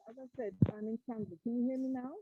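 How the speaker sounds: muffled voice, as if through a hand; talking through a covered mic. Real, not acted. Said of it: "Muffled voice".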